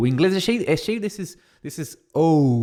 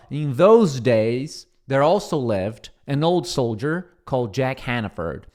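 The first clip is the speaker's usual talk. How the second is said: slow model reading; 2 semitones lower than usual. Shown as a demonstration. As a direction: read slowly and clearly in English. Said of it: "a primeira parte aqui do texto vai falar assim".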